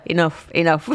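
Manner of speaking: "enough" said twice with a laugh; repeating enough, laughing. Real, not acted. The co-host echoes the word, laughing. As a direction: echo "enough, enough" with amusement. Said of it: "Yeah, Paula".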